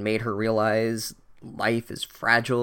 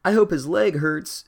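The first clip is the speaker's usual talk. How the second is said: mock bitter; 7 semitones higher, 5 dB louder than usual. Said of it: "said Ron bitterly".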